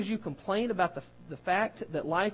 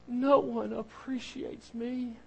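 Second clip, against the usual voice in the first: slow, high self-pitying sigh; mock martyr; 5 semitones higher, much slower than usual. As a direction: play the sighing martyr, slowly and high. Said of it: "The favorite phrase of a martyr".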